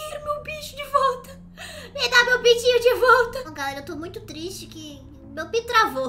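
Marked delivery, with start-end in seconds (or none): 0.1-3.4 whiny. Pretend. Pet stuck, whining.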